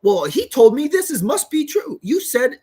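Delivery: lightly hammed-up cop impression; mocking the police officer. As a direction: parody the officer's condescending tone. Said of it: "they say it like".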